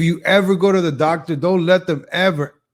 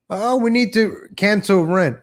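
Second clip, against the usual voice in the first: mock activist; 6 semitones higher, slower than usual. Mocking young activists.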